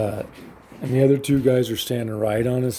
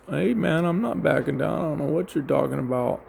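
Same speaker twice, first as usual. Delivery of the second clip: raised-pitch mock standoff talk; defiant retort; 4 semitones higher than usual. Storyteller replays facing the man who threatened him, defiant.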